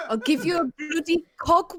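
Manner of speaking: halting attempt at Black Country; Black Country accent. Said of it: "some more Black Country phrases".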